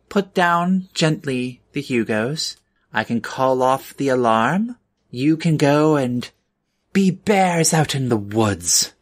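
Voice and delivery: stern manager warding off intruders; lightly voiced woman in charge, pitched a little up; firm, measured warning in character; convention manager. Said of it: "And she goes".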